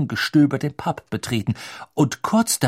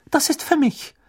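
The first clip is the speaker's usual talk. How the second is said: put-on much higher, crisp old teacher; stern teacher. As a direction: answer like a strict professor. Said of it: "antwortete Professor McGonagalls Stimme".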